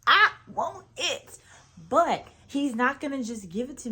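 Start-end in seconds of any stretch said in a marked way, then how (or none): 0.1-1.4 much higher and louder, building to a cry of I want it; fervent declaration. Retold or imitated. Telling her husband what she wants from God, fervently. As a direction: claim it with all your heart. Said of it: "I said".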